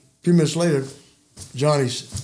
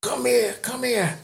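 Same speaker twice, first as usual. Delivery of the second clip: mild mock holler; 8 semitones higher, 6 dB quieter than usual. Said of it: "he starts hollering".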